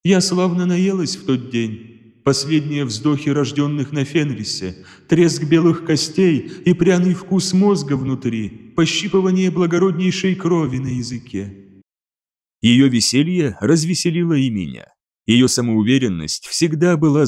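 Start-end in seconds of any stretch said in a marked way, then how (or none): 0.0-11.8 wolf voice. Acted. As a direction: relish every word like a predator. Wolf relishes the kill.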